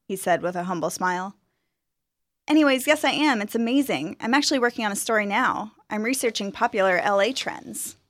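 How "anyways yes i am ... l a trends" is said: lightly voiced proud graduate; eager young woman. Student describes her work.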